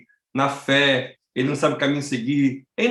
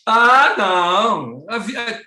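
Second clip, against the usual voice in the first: put-on very slow, louder drawn-out old woman; carefree old lady; 6 semitones higher, 5 dB louder, slower than usual. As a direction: stretch it like a grandma waving it off. Velha defende viver sem máscara. (senhora idosa despreocupada, bem lenta e alongada)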